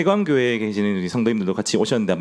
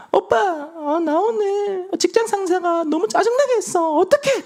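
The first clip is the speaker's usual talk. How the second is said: put-on much higher whiny girlfriend voice; slower than usual. Girlfriend complains to her boyfriend about her boss, high whine. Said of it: "아내나 여자친구가".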